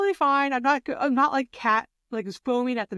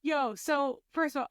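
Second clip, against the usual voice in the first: pumped radio DJ intro; 5 semitones higher, 4 dB quieter than usual. Real, not acted. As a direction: hype it up like a radio host. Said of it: "I sounded like a D J".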